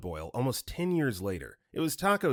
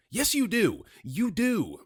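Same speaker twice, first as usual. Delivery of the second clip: high-pitched, insistent yell; mock scream; 10 semitones higher, slower than usual. Angry caller insisting to a restaurant worker, mock scream. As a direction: yell it high, cutting the other person off. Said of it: "they scream".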